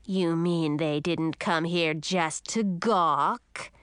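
slow, scornful witch voice; sneering sea witch. Acted. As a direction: sneer at them like an old witch. Witch mocks the visitors.

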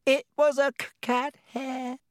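high wailing with stammers; howling, upset. Acted. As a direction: wail it, stumbling on words. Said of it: "she howled".

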